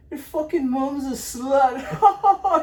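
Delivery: slow, loud, high Scouse impression; mock Liverpool Scouse insult; imitating a Scouse accent. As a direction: drag it out in a hammed-up Scouse accent. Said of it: "that was his Scouse".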